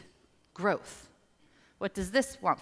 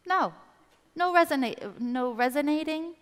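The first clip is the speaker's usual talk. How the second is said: higher, playful refusing voice; inner voice; 7 semitones higher, 4 dB louder than usual. Acted. Coach voicing the intuition saying no, higher. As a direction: wave it off lightly. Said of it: "if this voice says".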